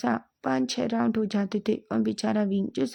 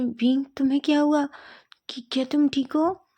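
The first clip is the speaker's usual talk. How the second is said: higher, louder worried asking; a friend fussing over Wing, higher and louder; concerned call; 5 semitones higher, 3 dB louder than usual. Acted. Friend asks Wing if he's okay, higher and worried.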